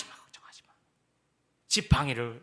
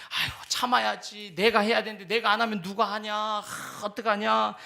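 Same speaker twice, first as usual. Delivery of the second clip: anxious sighing self-talk; 4 dB louder than usual. Acted. Burdened believer fretting to himself, sighing. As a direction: worry it all onto yourself.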